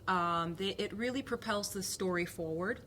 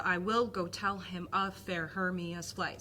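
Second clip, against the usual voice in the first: slow, "will" and "tell" punched on the heartbeat; iambic stress pattern. Shown as a demonstration. Teacher demonstrating the heartbeat, slow and stressed. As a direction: tap out the iambic beat, slowly. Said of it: "heartbeat of the iambic pentameter".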